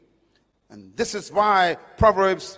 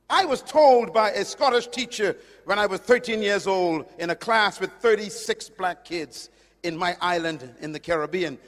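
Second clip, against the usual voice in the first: ordinary delivery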